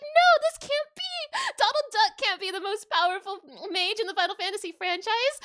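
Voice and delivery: high, loud, disbelieving wail; distraught cry. Retold or imitated. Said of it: "I was like".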